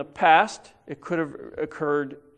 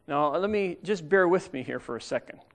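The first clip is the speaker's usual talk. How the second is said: usual speaking voice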